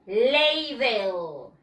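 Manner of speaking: "Ladle" stretched as "LAY-del"; model pronunciation. Shown as a demonstration. Teacher says repeat after me, model pronunciation. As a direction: say "Ladle" slowly and clearly for repeating. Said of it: "Repeat after me".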